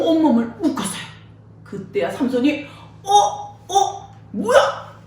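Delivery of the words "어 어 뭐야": confused waking. Acted.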